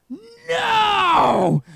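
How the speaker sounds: high, loud yelled "No!" at a charging dog; sudden shout. Retold or imitated. Cousin yelling at a charging Rottweiler, loud shout. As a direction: bark a sharp no to stop the dog cold. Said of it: "Then he goes".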